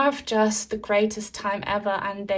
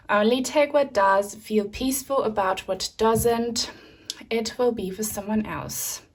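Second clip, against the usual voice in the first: breathless, short of air; out of breath. Real, not acted. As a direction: speak while out of breath. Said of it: "sorry, I'm so out of breath again".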